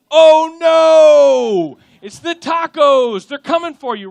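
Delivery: high, loud hammed-up alarm; mock panic. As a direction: shriek it like the tacos are attacking.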